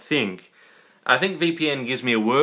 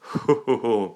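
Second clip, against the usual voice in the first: mock Santa chuckle; 3 semitones lower than usual. Playing Santa delivering presents.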